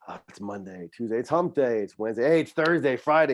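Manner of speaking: a mild build from a flat Monday to a perked-up Friday; mock weekday countdown. Coach mocking the rat race to a podcast host, mild building cheer. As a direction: tick off the days, getting brighter toward Friday. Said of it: "rat race of".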